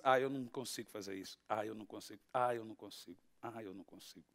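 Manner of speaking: low, soft repeated grumble; mock helpless excuses. Acts out someone listing excuses.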